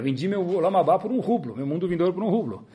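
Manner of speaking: chuckling through the words; laughing boast. Acted. Jeweler bragging to his wife about his sale, laughing. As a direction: laugh at the easy deal.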